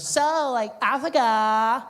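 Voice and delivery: put-on high, loud, drawn-out surfer-girl voice; California babe. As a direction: ask like a ditzy beach girl. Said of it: "California babe".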